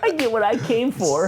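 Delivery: hammed-up tragic hero speech; martyr Daredevil. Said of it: "oh, martyr Daredevil".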